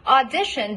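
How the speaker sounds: "Audition" with a full, pure ah as in father; don't reduce the first vowel of "Audition". Shown as a demonstration. Coach showing an unreduced first vowel in "Audition". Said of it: "don't reduce the first vowel".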